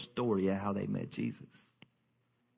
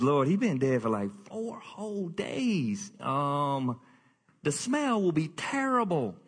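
comic Martha; slower than usual. Acted. Martha protesting to Jesus about the smell, comic whine. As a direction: whine it like a fussy sister. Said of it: "Martha's like the comic relief".

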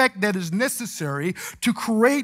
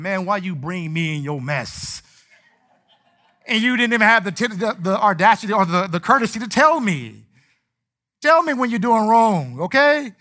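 mock exasperated sailor; 2 semitones higher, 4 dB louder than usual. Sailors scolding Jonah, hood style.

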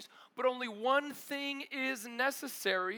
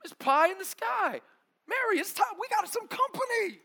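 higher, eager gossip voice; siding with Martha; 8 semitones higher, 5 dB louder than usual. Retold or imitated. Preacher siding with Martha against dreamy Mary. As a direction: egg Martha on, half joking. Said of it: "I'm like".

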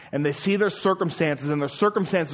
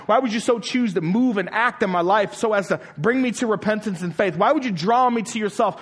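a higher, wondering voice asking God why; wondering sinner; 5 semitones higher than usual. Retold or imitated. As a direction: voice the sinner's amazed questions, lifted up. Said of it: "the natural question a sinner asks".

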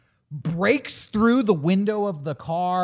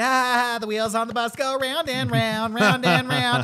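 high, forced singsong through panic; hammed-up anxious high chant; mock traumatized cheer; 6 semitones higher than usual. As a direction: imitate kids desperately keeping it together. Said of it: "they're operating through trauma".

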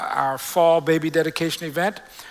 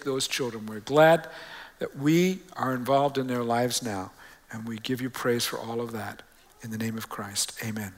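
public prayer. Real, not acted. Pastor praying over families of dedicated babies, measured prayer. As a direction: pray aloud for the congregation, pausing between phrases.

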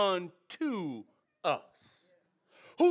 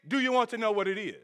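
imitating Morpheus; 3 dB quieter, much faster than usual. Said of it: "That's how he was talking".

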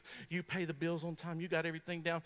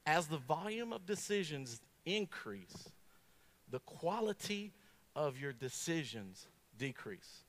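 slow, weighty quote; 3 semitones lower, 3 dB quieter, slower than usual. Shown as a demonstration. Preacher slowly quoting the research to the congregation, deliberate. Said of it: "listen to this, this is it, ready?".

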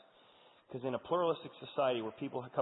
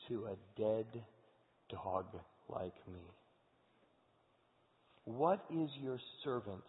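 very slow, awed and lowly; humbled disbelief; much slower than usual. Acted. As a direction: marvel at undeserved grace. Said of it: "Mephibosheth looks at David and says".

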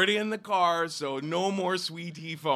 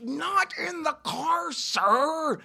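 plain; 10 semitones higher, 3 dB louder, slower than usual. Retold or imitated. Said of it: "and I'm saying".

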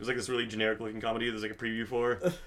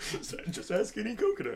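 deadpan; 8 semitones higher, 4 dB quieter than usual. Shown as a demonstration. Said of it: "It's, like, super deadpan".

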